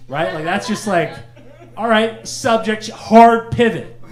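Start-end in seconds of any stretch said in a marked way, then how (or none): 1.8-4.0 loud, high and slow; emphatic pivot. Acted. Listener dodging an awkward family topic, emphatic pivot. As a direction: punch each word, stretched out. Acting an abrupt subject change.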